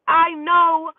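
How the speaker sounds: teasing. Retold or imitated. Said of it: "I'm like".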